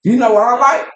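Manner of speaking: talking with food in mouth; words around a mouthful of food; mouth full. Real, not acted. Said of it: "my mouth full".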